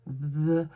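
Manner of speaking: "the" with a long voiced th; English TH. Shown as a demonstration. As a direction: hold the th of "the" before the vowel. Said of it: "Mais c'est pas ça. C'est le the".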